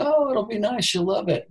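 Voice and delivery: high-pitched mock of naive guys; imitating hopeful guys. Voicing guys who think it's sweet, hopeful imitation.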